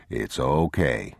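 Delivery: low, slow, soft reassurance; calm a frightened child; soothing father. Acted. Father soothes sick boy.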